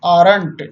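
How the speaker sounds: aren't said as one syllable, AHRNT; aren't modelled for students; pronounce aren't. Shown as a demonstration. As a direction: fold are and not into aren't. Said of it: "pronunciation हो गया".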